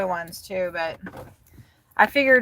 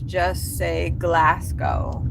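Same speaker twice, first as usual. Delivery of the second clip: Scottish Glasgow; 2 semitones lower, much slower than usual. Shown as a demonstration. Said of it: "If you want to sound Scottish".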